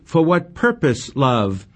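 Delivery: a hint of Romeo's anguish; anguished cry. A narrator's reading. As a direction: ask it in lovesick anguish. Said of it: "cries out in anguish".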